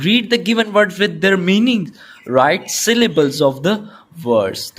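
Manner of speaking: slow, deliberate dictation pace; slow reading aloud. Shown as a demonstration. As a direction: read the question slowly for students. Teacher reads instructions slowly.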